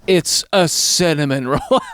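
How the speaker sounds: slow imitation of a deadpan teen. Teenage hostess to drunk customer, slow deadpan. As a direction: spell it out slowly, unimpressed. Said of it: "There is nothing like the deadpan".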